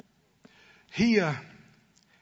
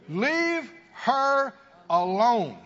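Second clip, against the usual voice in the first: slow, drawn-out, weighty command; Jesus's rebuke said slowly and gravely; solemn command; much slower than usual. Acted. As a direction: let each word land slowly. Jesus's words quoted with weight.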